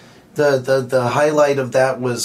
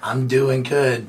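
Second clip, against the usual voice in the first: hoarse voice. Real, not acted. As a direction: talk through a sore throat. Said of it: "is Hush today".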